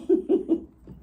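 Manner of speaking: loud, high giggle; amused giggle. Real, not acted. Owner soothing the animals, short high giggle.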